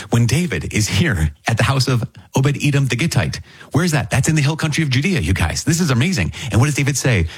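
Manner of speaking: high, eager voice, building to the reveal; thrilled at the parallel; preacher amazed at the hill country link; excited preaching. Real, not acted.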